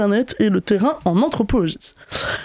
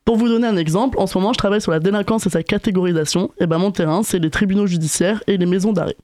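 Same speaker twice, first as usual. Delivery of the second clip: raspy sore-throat voice; hoarse voice. Real, not acted. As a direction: speak through a sore throat. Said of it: "c'est pas ma voix normale, j'ai une angine".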